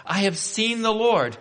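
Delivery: high, ringing announcement; joyful announcement. Acted. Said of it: "announcing to the disciples".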